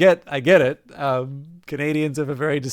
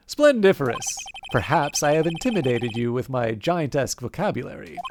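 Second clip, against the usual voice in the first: pompous CEO voice. Acted. Red White boasting.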